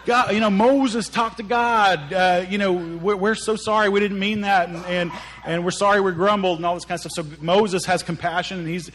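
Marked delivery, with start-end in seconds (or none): 0.0-6.6 higher-pitched mock contrition; put-on sheepish apology; apologetic pleading. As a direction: plead your way out of trouble. People suddenly begging for forgiveness.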